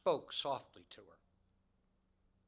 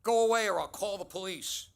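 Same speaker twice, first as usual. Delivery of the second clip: frightened shout; 7 semitones higher, 10 dB louder than usual. Retold or imitated. Frightened woman warns him off.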